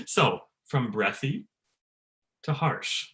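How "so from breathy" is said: usual speaking voice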